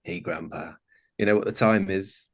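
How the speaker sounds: playing the cheeky grandson calling a play fight; grandson's challenge. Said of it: "and he'll go".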